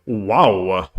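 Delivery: drawn-out wow in a rough celebrity impression; badly attempted actor impression; Christopher Walken. Streamer quoting a famous actor while solving chess, amateurish impression. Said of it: "that was my Christopher Walken impression".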